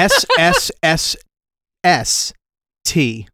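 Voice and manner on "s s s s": S S S S 를 뱀처럼 길게 끄는 소리; 높은 음으로 S S S S 를 길게 늘이기; drawn-out s like a snake. Shown as a demonstration. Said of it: "Guess how it's spelled?".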